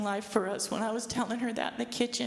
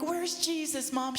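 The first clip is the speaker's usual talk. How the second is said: put-on higher, eager little-kid question; little kid asking; 6 semitones higher than usual. Child asking her mother where Jesus is, eager. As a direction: ask it like a small child looking for Jesus. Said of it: "I'm just like a little kid up there".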